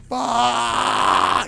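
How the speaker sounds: high, loud startled curse; loud mock-panicked swear; shocked curse. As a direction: yelp it as the arm goes. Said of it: "he's like".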